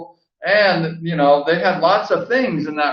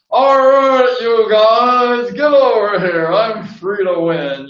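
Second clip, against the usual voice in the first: loud, high bossy holler at the riders; loudmouth yelling; 6 semitones higher, 4 dB louder, slower than usual. Retold or imitated. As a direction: bark orders like a tough old lady calling the boys over. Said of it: "she was like loudmouth".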